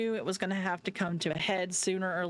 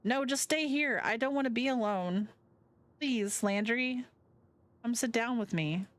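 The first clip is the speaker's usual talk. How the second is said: pleading Avery; 6 semitones higher than usual. Acted. Avery begs Landry to stay.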